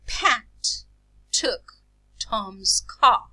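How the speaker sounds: "Pat took Tom's car" word by word, puff of air after P, t and c; aspirated plosives. Shown as a demonstration. Teacher giving an example of aspiration, "Pat took Tom's car" with breathy plosives. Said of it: "aspirated. For example".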